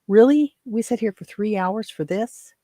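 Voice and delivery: sharp, high, loud disbelief on Really; incredulous, fed-up challenge to the doctor; exasperated retort. Retold or imitated. Retelling her retort to doctor.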